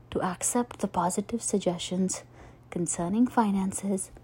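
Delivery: soft, soothing meditation voice with long pauses; guided meditation. Acted. Podcast host leading listeners through financial abundance meditation, calm guided-meditation voice. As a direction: guide listeners gently into calm, leaving space between phrases.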